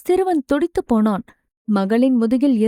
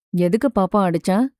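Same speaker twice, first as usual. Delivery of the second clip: calm question; 4 semitones lower than usual. Acted. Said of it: "நிதானமாகத்தான் கேட்டான்".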